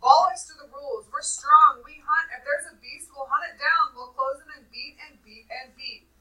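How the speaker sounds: driving shout, easing off at the end; shouting defiance. A narrator's reading. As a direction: shout down the opposition as a boy leader. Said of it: "Jack was shouting against him".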